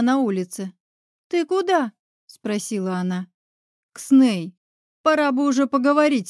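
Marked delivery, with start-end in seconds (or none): 1.3-1.9 surprised call. Acted. Deya chasing heroine. 3.9-6.3 barking. A narrator's reading. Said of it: "рявкнула я".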